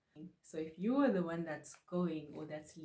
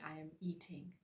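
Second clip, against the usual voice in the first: whisper; 7 dB quieter, faster than usual. Real, not acted. Teacher aside in a whisper.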